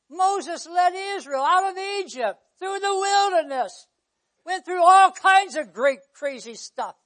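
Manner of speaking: high, loud pulpit storytelling; preaching. Real, not acted. Preacher recounting the Exodus to congregation, preaching forcefully.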